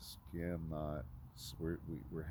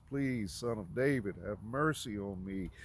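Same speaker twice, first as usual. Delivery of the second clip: retold hollering plea; 2 semitones higher than usual. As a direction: call out imploringly, short of a shout. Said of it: "He ho-, he hollers, he cries".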